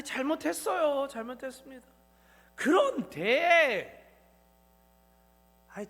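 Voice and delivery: mock whining prayer, stretching the buts; half-hearted confession shifting blame; whiny excuse. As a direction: play an unrepentant believer making excuses. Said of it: "이렇게 합니다".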